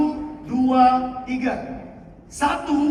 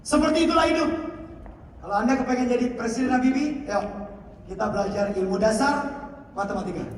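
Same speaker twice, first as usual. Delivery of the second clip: teacher demo continues; faster than usual. Shown as a demonstration. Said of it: "Ini contoh saya".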